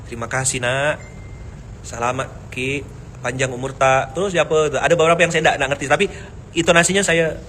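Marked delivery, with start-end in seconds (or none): 0.1-4.2 put-on tender old seller. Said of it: "dia doakan panjang sekali".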